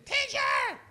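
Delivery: high, loud acted plea; desperate acted shout, stretched out. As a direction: cry out to wake the teacher. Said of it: "shouting him".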